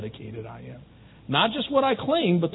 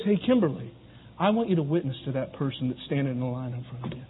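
gentle voice; 8 semitones lower, 8 dB quieter than usual. Pretend. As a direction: lower and softer, calm instruction. God gently speaking to Kimberly.

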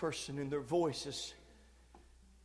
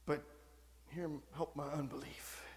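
much lower and far softer, unsure; quiet wavering plea; doubtful; 5 semitones lower, 12 dB quieter than usual. Retold or imitated. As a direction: let the certainty drain away. Doubting voice after confident one.

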